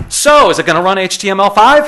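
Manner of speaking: lightly hammed-up clueless techie; mock clueless question. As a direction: blurt it out, oblivious to the mood. Colleague's awkward question retold.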